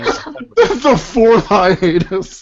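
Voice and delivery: slow words through a laugh. Real, not acted. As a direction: chuckle it out slowly. Mocking repeat, laughing.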